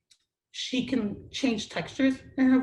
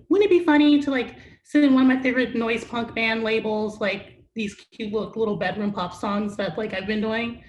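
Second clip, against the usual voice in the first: louder, eager and amused; excited idea; 6 dB louder than usual. Retold or imitated. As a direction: pitch the fun idea with glee. Retold excited idea of a joke.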